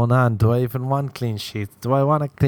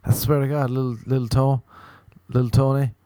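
mock panicked pleading. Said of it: "you'd be like".

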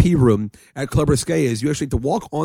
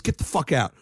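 put-on Philly accent; 6 dB quieter than usual. Bouncer throwing out the friends, Philly accent. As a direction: imitate a Philly bouncer, softer voiced. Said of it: "Yeah, Philly accent".

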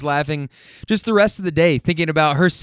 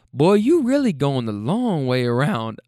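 slow granny tease with swooping pitch; needling granny. Retold or imitated. Granny ribbing her driver, slow imitated needling. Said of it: "Comes back to it again".

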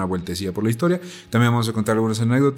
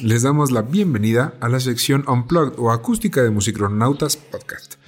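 pilot announcement; 3 semitones higher than usual. Pretend. Captain announcing to the crew.

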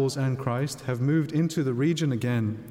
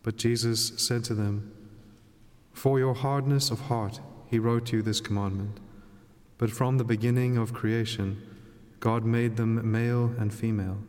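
Gospel reading. Acted. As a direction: read scripture aloud at Mass.

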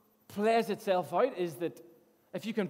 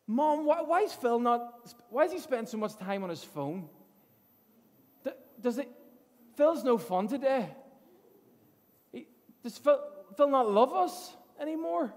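put-on higher, pleading child voice; nieces' voice; 5 semitones higher than usual. Nieces asking mom about Phil, childlike and higher. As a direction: voice the kids, calling him out. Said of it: "They actually call me out and say".

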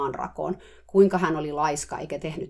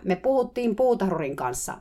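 shouting; 4 semitones higher, 4 dB louder than usual. Retold or imitated. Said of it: "hehkuva aurinkokin jo huusi".

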